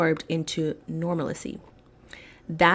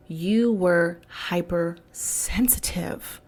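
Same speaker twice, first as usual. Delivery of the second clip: mocking whisper; slower than usual. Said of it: "if you say or said".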